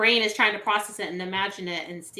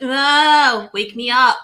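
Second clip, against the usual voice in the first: louder, higher drawn-out cry; retold dream plea; 4 semitones higher, 5 dB louder, much slower than usual. Sleeper calling out to be woken from a dream, mock cry. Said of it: "where I'll be like".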